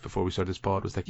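usual speaking voice

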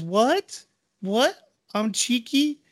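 put-on high indignant little kid voice; kid voice protesting. Bingo protesting to her mom, high indignant kid voice. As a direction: squeak out a puzzled what as the child.

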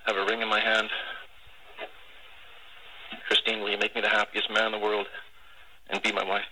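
proposal over tinny radio; heartfelt announcement over a crackly radio; air traffic control radio. Real, not acted. Played air traffic control recording.

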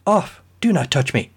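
shouted actress. Acted. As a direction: shove him off with a shriek. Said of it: "she shouted".

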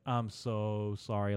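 slow, drawn-out mock apology; retold apology. Hygienist apologizing all the way out, drawn-out imitated apology. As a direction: imitate her apologizing, stretching it out slowly. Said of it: "apologizing the whole fucking way".

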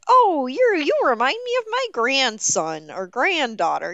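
put-on high, gentle old man; lightly voiced sweet grandpa; kindly old grandpa voice. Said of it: "that just are like".

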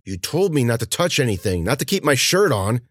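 words pushed through clenched teeth; through gritted teeth. Acted. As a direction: talk with your jaw locked. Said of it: "Through gritted teeth".

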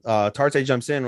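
ordinary talk

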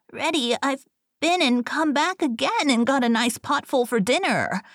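high-pitched piglet voice; triumphant little pig. A narrator's reading. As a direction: crow over the wolf in a high pig voice.

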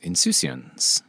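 slow, soft French accent. Shown as a demonstration. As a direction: say insouciance the French way, slowly. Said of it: "Like, in a French accent?".

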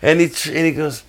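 usual speaking voice

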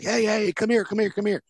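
mock-eager cop summoning someone in quick repeats; eager cop calling. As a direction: pitch it up, imitating an eager buyer. Cop eagerly calling Harpo over.

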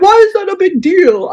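high, dismissive mimicry of the parents; mock parents. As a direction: play the parents as clueless and whiny.

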